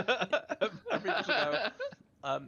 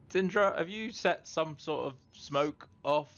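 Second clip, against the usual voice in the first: raised, slow, drawn-out call; calling upstairs; 5 semitones higher, 5 dB louder, slower than usual. Acted. Romulus calls to Zindra about smoke, calling upstairs. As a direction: half-shout up to someone upstairs. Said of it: "shout up the stairs to Zindra".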